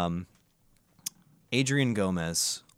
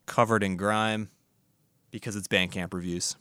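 rhyming intro; slower than usual. Acted.

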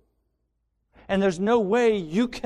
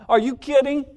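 mocking scoff; 7 semitones higher, 4 dB louder, faster than usual. Voicing self-love mockingly.

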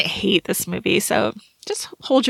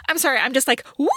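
hyper; 4 semitones higher, much faster than usual. Retold or imitated. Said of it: "she's like".

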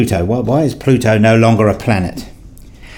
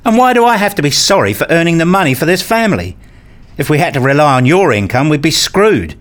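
angry retort; 5 semitones higher than usual. Acted. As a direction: snap back at your wife, offended. Husband shouts back in quarrel.

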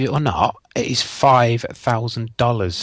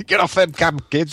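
higher, raised mock telling-off; angry shout; 7 semitones higher than usual. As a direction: yell the kids away. Joining the mock chase-off.

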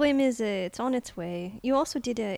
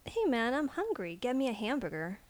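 casual tossed-off delivery, voiced; throwaway line; 3 semitones higher, 3 dB quieter than usual. Shown as a demonstration. Director asks for a casual throwaway, tossed off. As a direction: toss it away like it doesn't matter. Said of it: "do it as a throwaway line".

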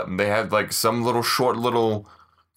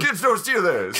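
gruff mountain man; 7 semitones higher than usual. Retold or imitated. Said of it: "Batman's an old prospector from the West".

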